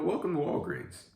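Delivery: high, singsong cashier welcome; lilting retail hello; cheery store greeting. Retold or imitated.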